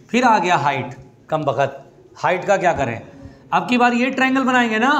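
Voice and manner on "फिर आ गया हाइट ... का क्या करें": low grumble of a fed-up student; mock dismay, sinking into a low mutter; exasperated student. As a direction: grumble like a student stuck on the problem. Voices student annoyed by height again.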